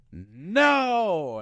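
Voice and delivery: high, loud drawn-out refusal; acted movie-fight yell; defiant mock shout. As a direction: bellow it like a stubborn brawler, hammed up. Acting out stubborn fighter mid-fight.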